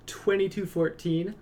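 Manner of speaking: incredulous, what does that even mean; confused repeat, rising high at the end; baffled echo. Real, not acted.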